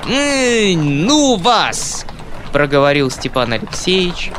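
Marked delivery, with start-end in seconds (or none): 0.1-2.1 out of breath. Acted. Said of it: "задыхаясь от ходьбы".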